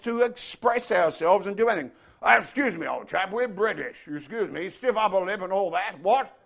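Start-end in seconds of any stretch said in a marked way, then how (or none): 2.2-6.4 mock stiff British. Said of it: "I grew up in that culture".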